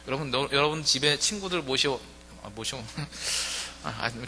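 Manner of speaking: ordinary talk, nothing marked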